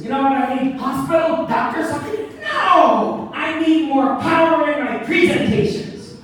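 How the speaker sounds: high-pitched, emphatic outburst; urgent acted demand. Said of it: "he says".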